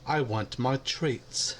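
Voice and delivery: slow put-on cat voice demanding treats; cat voice with an accent. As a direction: stretch it out like a spoiled cat. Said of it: "why the accent?".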